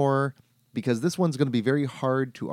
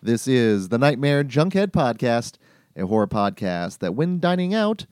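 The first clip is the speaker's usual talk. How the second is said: dramatic podcast announcer; announcer intro. Acted.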